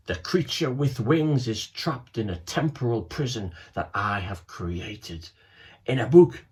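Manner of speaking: a grand villain's threat, lightly played; lightly voiced villain. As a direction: Snare lays down his challenge to the boys, mildly grand. Villain Snare announces his threat.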